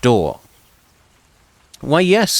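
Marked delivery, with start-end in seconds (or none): 1.8-2.4 much higher, eager lady's voice; excited. Acted. Baroness recognizes the famous warrior, excited and high. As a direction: burst out with noble delight. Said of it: "she says excitedly".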